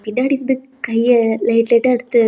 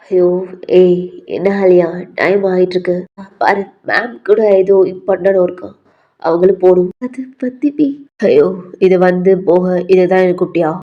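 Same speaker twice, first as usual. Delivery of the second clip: lightly voiced impatient V; 4 semitones lower than usual. V telling Alia that ma'am has work, impatient low voice. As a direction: lower voice of an impatient boy.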